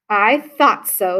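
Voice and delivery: slow, smiling reply; with a smile. Acted. Old woman answering Camilla, slow and smiling. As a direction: let the smile come through. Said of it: "said with a smile".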